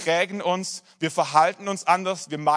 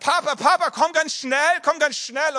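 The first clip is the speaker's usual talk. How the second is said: much higher, louder urgent calling; imitating child's shout; 9 semitones higher, 5 dB louder than usual. Son calls from the toilet for his father, imitated high urgent shout. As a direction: call Papa like a panicked little boy. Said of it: "schreit er von der Toilette".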